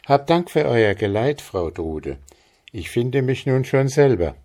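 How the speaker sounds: leicht höhere Mädchenstimme, dankbar; angedeutetes junges Mädchen, freundlich; Maren, höflich. Acted. Maren bids Trude farewell. (Maren dankt Frau Trude höflich, mit etwas höherer Stimme)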